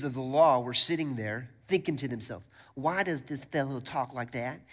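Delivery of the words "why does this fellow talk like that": lightly put-on Pharisee voice; a hint of a sniping Pharisee; mock Pharisee. Teacher of the law questioning Jesus to himself, mock Pharisee. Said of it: "that's what Pharisees sound like".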